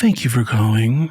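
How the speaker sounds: sultry voice. Speaker imitates a woman the speaker once worked with answering calls, in a sultry phone voice.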